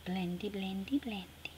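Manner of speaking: breathy little whisper, word repeated; whispered to herself. Real, not acted. Crafter whispering to herself while smoothing the sticker, hushed. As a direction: murmur it softly to the paper.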